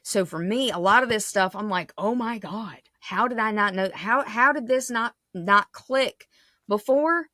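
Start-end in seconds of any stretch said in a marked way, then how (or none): 2.0-7.3 frustrated at self. Retold or imitated. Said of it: "if you hear frustration in my voice".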